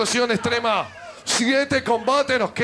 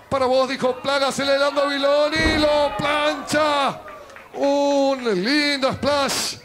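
lively ringside play-by-play; wrestling commentator. Acted. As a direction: call the match live, building.

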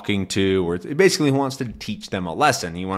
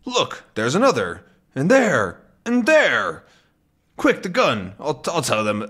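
climbing higher with each there; rising alarm; 4 semitones higher than usual. Acted. Tintin spotting more sharks, rising alarm. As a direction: point them out faster and more alarmed.

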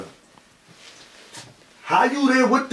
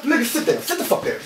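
hissed threat. Acted. Ordering friend to sit.

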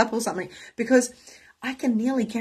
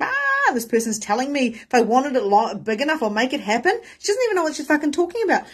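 high, loud exasperated rant; mock frantic wail into complaint; burnout meltdown; 7 semitones higher, 5 dB louder than usual. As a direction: re-enact a frazzled outburst, pitched way up. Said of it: "I was like, burnout, breakdown".

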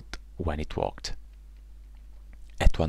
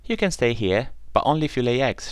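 put-on higher, stern old woman; lightly voiced old woman; 7 semitones higher, 4 dB louder, faster than usual. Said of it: "she said".

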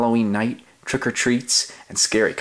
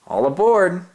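higher, louder hearty call; 9 semitones higher, 4 dB louder than usual. Acted. Oscar calling dogs onto his costume raft, hearty call. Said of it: "Oscar called".

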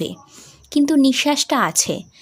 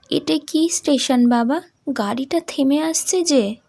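put-on young daughter; 4 semitones higher than usual. Daughter answering her father on the train, higher. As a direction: play the young sick daughter.

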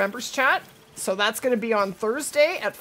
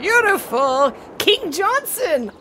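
hoarse, strained voice, losing it; hoarse voice cracking as it goes; 6 semitones higher, 5 dB louder than usual. Real, not acted. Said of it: "Sorry, I'm losing my voice".

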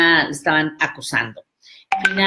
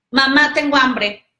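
whiny daughter; 7 semitones higher, 4 dB louder than usual. Retold or imitated. Voicing the daughter.

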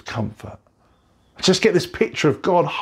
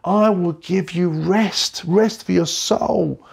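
higher, slow, tender reassurance; God comforting; 6 semitones higher than usual. Retold or imitated. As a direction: speak as God soothing a hurting child. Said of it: "He's saying".

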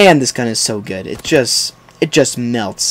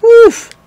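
loud, very high hoot; high whoop of relief; startled whoop; 8 dB louder than usual. Real, not acted. Gamer almost destroyed by an enemy, startled whoop. Narrowly survives in game.

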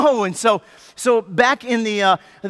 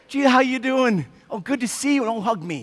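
mock sweet greeting. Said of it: "that's not what Martha's going for".

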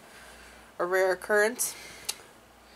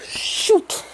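high, loud blurt; startled exclamation; 12 semitones higher, 10 dB louder than usual. Real, not acted. Wife who almost said a bad word, startled blurt. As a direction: burst out with a near-curse. Nearly swore after stumbling.

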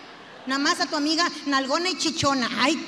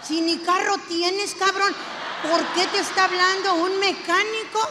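jealous accusation; 3 semitones higher than usual. Acted. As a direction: catch him in the lie. Jealous wife interrogates husband.

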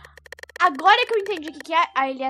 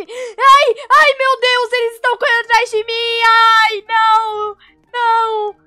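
panicked shrieking; high frightened cries while chased; scared horror game streamer; 7 semitones higher, 13 dB louder, slower than usual. Real, not acted.

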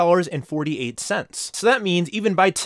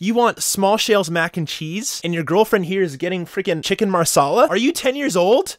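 mock disbelief building to a high, loud jab; incredulous retort; 4 semitones higher, 3 dB louder than usual. Server imagining mocking a customer's childish order, incredulous. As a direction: act out what you wished you'd told the customer. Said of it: "That's what I wanted to say".

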